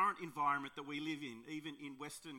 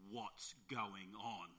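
very slow, deep, lower voice; Aslan-like voice; 6 semitones lower, 4 dB quieter, much slower than usual. Retold or imitated. Rescuer confronting the kids, deep slow Aslan-like voice. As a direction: boom it out slowly like a great lion. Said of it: "in this deep Aslan-like voice".

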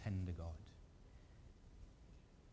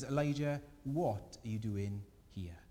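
gentle listening God. Pretend. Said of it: "And God just simply listens".

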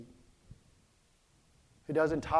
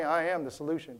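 mumbled under breath; 2 semitones lower, 6 dB quieter than usual. Shown as a demonstration. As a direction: say it under your breath to yourself. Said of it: "mumble under your breath".

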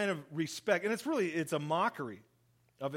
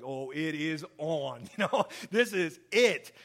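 eager thrill; 4 dB louder than usual. Retold or imitated. Disciples think the fight starts.

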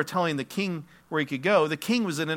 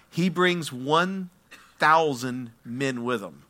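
slow dramatic reveal; slower than usual. Real, not acted.

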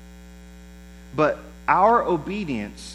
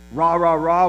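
mock cheering; 6 dB louder than usual. Imitating fired-up believers cheering.

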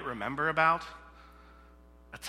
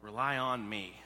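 voice of God; 5 semitones lower, 4 dB quieter than usual. Acted. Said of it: "is what he's teaching them".

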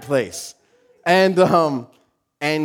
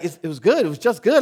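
questioning, rising on each "good"; incredulous echo; 3 semitones higher, faster than usual. Retold or imitated. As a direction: echo it back as a puzzled son. Son doubts mom's answer.

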